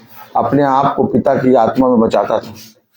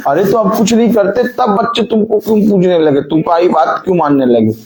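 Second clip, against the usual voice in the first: higher-pitched, mock-puzzled questioning; baffled questioning; 7 semitones higher than usual. Preacher voices puzzled onlookers asking parents about their children, baffled questioning. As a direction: ask as if you can't work it out.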